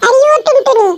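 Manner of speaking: "अरे ओ Tuntuni" shouted high and loud, sneering; mock-call her name from across the street; taunting call. Rich girl taunts Tuntuni. (ऊँची, तेज़ आवाज़ में चिढ़ाती पुकार)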